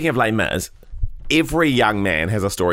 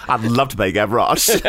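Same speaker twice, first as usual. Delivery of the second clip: put-on flamboyant kid.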